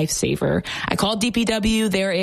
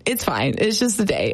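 resigned. Shown as a demonstration. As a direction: say it flat to yourself, giving up.

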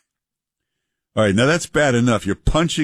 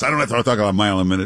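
mile a minute; much faster than usual. Shown as a demonstration. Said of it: "See, I talk normal like this".

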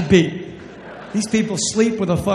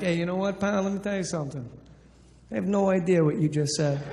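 tough-guy Jersey; 7 dB quieter, faster than usual. Retold or imitated. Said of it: "I'm like".

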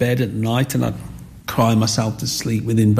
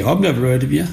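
sarcastic; 3 semitones higher, faster than usual. Retold or imitated. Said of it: "And he went sarcastically".

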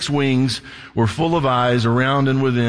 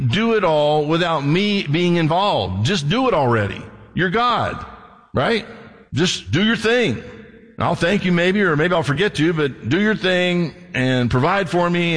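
higher-pitched, casual nagging at God; lightly exasperated, pitched-up appeal; mock impatient plea; 5 semitones higher than usual. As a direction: plead as if it should be obvious, half-joking. Acts out complaining plea to God.

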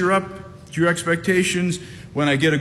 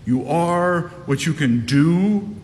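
slow seductive voice; slower than usual. Retold or imitated. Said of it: "the danger of listening to this voice".

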